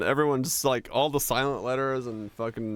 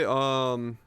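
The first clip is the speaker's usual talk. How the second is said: ordinary talk, nothing marked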